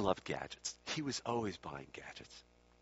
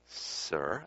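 drawn-out, careful "sir"; slow and cautious; 5 semitones lower than usual. Retold or imitated. Student advising Swami about the case, slow and cautious. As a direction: begin carefully, stretching the word out. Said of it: "a little more slowly and a little more cautiously".

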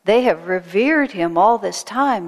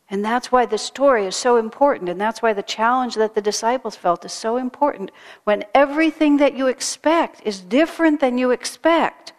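fervent preaching; 4 semitones higher, 3 dB louder than usual. Real, not acted. Preacher's emphatic climax.

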